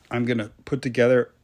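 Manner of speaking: talking through a hiccup; words broken by hiccups. Real, not acted. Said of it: "sorry, I have hiccups".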